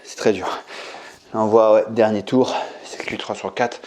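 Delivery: talking through effort mid-set; breathless, working hard; strained from exercise. Real, not acted. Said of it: "Ah, c'est dur".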